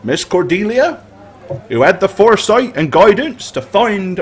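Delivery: raising a toast to the heroes; rousing tavern toast, building to cheers; toast speech. Acted. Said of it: "he says".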